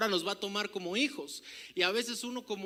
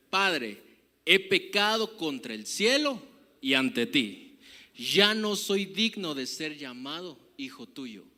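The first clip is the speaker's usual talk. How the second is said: loud, slow pleading of the son; repentant son's plea; 3 semitones lower, 7 dB louder, slower than usual. Acted. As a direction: cry it out to the father, slowly. Preacher voices repentant son. (súplica fuerte y lenta del hijo)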